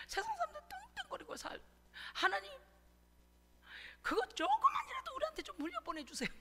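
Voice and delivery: high, whiny mock plea to God; hammed-up high pleading prayer; aggrieved begging prayer. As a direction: imitate your old self begging for a share of the wealth. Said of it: "억울해서 이렇게 기도했어요".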